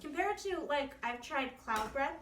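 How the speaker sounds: talking with a mouth full; speaking through a mouthful of food. Real, not acted. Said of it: "I'm talking with my mouth full".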